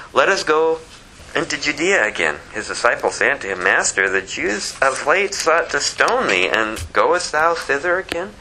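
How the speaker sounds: steady King James reading voice; formal Bible reading; scripture reading. Acted. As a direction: read the passage aloud to the congregation. Reads John eleven aloud.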